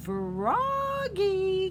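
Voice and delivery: high, loud drawn-out call. A narrator's reading. Mother calling Froggy back inside, high and loud. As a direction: call him in from far away. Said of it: "called his mother".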